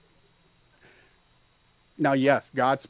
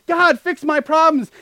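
high, slow whiny plea; hammed-up whiny plea; mock whining prayer; 12 semitones higher, 9 dB louder, slower than usual. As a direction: whine like a child asking God.

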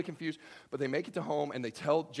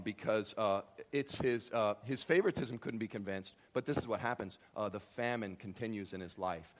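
ordinary talk, nothing marked

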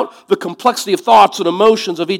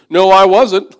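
loud denial; 4 semitones higher, 8 dB louder, slower than usual. Retold or imitated. Peter denying to servant girl.

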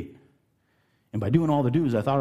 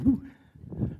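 mock scream; 13 semitones higher than usual. Shown as a demonstration. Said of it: "cover the mic and scream".

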